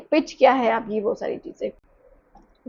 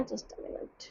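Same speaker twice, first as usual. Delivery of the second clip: breathy whisper, far softer; whispered aside; 2 semitones lower, 22 dB quieter, much slower than usual. Real, not acted. Teacher whispers off-mic to someone in the room during class. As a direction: drop to a whisper off to the side.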